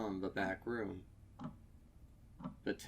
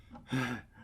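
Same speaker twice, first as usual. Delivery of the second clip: ragged gasp; 3 semitones higher than usual. A narrator's reading. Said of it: "chest heaving with every ragged breath".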